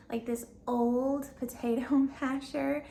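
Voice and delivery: amused, laughing through the words; can't help laughing mid-phrase. Real, not acted. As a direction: let a chuckle break into the phrase. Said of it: "I'm laughing because".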